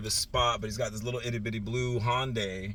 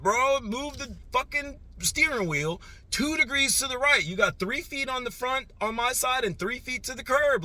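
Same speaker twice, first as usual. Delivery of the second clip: much higher and louder, ranting yell; retold furious yelling; 4 dB louder than usual. Driver lecturing tiny Hyundai driver on how to move, furious yelling. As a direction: chew him out step by step at full volume. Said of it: "and of course I'm yelling".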